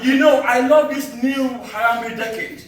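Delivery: measured spoken-word delivery with deliberate pauses; poem recital. Acted. Poet to summit crowd recalling the long trek, declaimed poem recital. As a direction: declaim it line by line to an audience.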